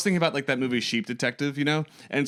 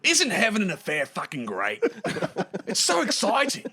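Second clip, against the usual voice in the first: high, laughing, giddy impression; gleeful Aussie cheater; 8 semitones higher than usual. Mimicking Hugh Jackman boasting of his affair, high and giggly. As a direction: squeal it like a naughty star caught out.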